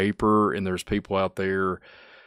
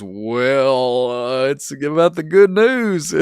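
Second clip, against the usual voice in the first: quoting Lance; 4 semitones higher, 4 dB louder, much slower than usual. Retold or imitated. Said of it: "And he goes".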